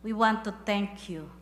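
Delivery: earnest spoken prayer to God. Acted. Pastor leading the church in closing prayer, devout. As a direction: pray it over the congregation, steady and devout.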